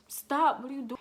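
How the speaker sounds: retold jolt of alarm on the first word; startled protest. Telling viewers how they protested being grabbed, startled protest.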